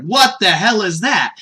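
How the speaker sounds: acted bewilderment; Goku, startled. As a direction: blurt it in mock alarm. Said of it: "He's just really kinda startled".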